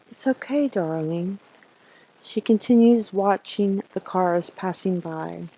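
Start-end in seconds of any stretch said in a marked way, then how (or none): 0.1-1.4 tender reassurance. Shown as a demonstration. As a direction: soothe her gently, rising then fading. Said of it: "now you say".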